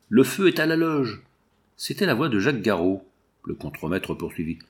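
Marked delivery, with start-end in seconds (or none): 0.1-1.2 higher, raised alarm call; cry out. A narrator's reading. Foreman raises the alarm to the rescuers, shouting. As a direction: call the alarm across the yard. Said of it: "Une voix cria".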